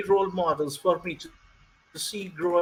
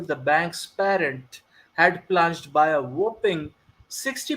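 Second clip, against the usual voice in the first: put-on Indian accent. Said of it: "I should go with an accent".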